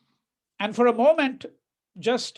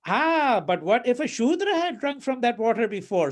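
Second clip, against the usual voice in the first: mocking; 3 semitones higher than usual. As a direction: jeer at the priest's fussiness. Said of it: "So he's mocking the Pandit".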